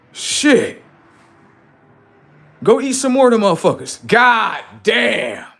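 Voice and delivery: high, loud shocked disbelief; shocked shouting. Real, not acted. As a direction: yell it in stunned disbelief. Reacting to comment about eating humans.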